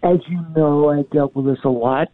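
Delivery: muffled, like a hand over the mouth. Real, not acted. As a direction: speak through a covered mouth. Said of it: "sounding very, very muffled".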